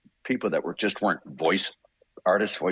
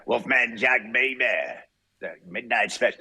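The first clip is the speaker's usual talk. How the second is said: Wolfman Jack impression; 3 semitones higher than usual. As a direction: hype it up like a late-night radio host, only lightly. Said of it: "which was like".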